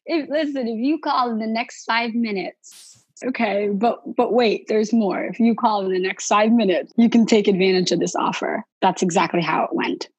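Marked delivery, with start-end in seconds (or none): 0.0-8.6 lightly voiced TV pitchman, higher; a hint of a hyped sales ad; infomercial. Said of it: "Zen monastery limited time offer situation".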